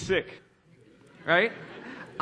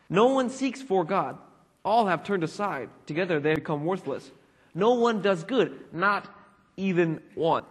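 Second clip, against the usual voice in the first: measured, emphatic reading of a Bible passage; scripture reading. Acted. Preacher reading Romans to the congregation, measured and emphatic. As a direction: read it out in weighty, separated phrases.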